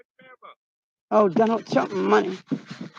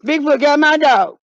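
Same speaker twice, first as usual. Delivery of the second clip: mock distress; 5 semitones higher, 3 dB louder than usual. Mock lament to companion.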